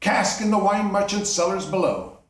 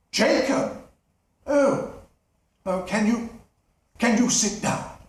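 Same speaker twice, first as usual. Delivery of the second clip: nervous miser; 4 semitones higher than usual. Acted. Scrooge nervous.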